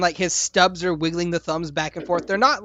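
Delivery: ordinary delivery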